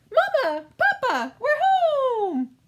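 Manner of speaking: high, loud cheerful call; calling out home. Acted. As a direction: shout happily into the house. Children call out to parents.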